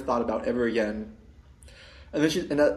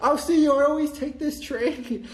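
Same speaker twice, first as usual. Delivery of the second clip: hurried exclamation; 13 semitones higher than usual. Retold or imitated. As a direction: blurt it out while hurrying off the train. Calling back while leaving.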